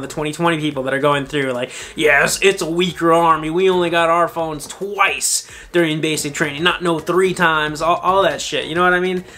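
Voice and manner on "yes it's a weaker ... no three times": put-on old veteran voice. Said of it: "that was my impression of an old veteran".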